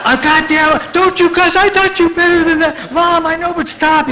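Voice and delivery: lightly voiced squabbling parents; mock parents arguing. Dad swears and mom scolds him, in high hammed-up voices. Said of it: "So he's like".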